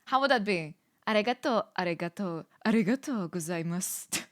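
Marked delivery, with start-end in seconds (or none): 1.1-4.2 Japanese thank-you in a held-down tone; lower tone. Shown as a demonstration. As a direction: keep the pitch down, feeling it out. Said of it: "a, like, a lower tone".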